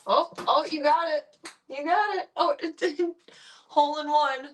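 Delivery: high, loud cheer for the pet; delighted shriek at the lucky shot; excited cheering. Real, not acted. Cheering the cat's hole in one, excited and high.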